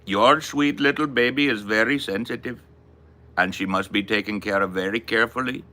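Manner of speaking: put-on lightly done Bangladeshi accent of a caring vet; a hint of a Bangladeshi vet's accent, careful and kindly. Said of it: "this is how he talked, exactly".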